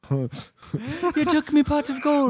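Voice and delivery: high, slow, whiny Irish leprechaun voice. Acted. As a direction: wail it like a robbed leprechaun. Leprechaun voice, Michael stole gold.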